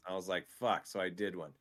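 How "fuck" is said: understated, defeated swear; resigned curse. Retold or imitated. Streamer reacting to the first exercise demand, resigned. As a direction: curse under the burden of one set.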